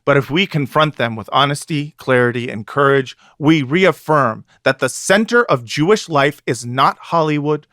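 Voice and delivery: grave, solemn reading of a closing line; dramatic reading. Acted. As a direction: read it like a rousing editorial finale. Reads article's closing aloud.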